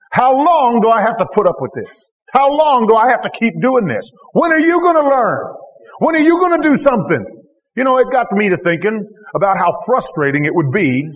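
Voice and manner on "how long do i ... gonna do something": exasperated, building to a high shout; frustrated outburst. Retold or imitated. Teacher fed up with his disciples, exasperated rising shout. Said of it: "And he got frustrated".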